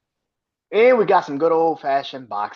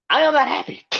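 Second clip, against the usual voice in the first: mock upset; 11 semitones higher, faster than usual. Fan vents over losing streak.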